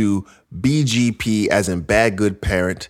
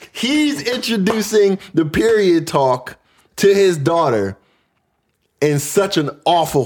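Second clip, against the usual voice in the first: sing-song laughing; 8 semitones higher than usual. Real, not acted. Laughing disbelief at story.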